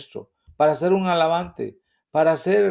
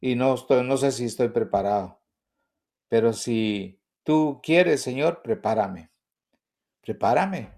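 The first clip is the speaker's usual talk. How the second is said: humble prayer; 3 semitones lower than usual. Retold or imitated. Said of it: "yo entendí y dije".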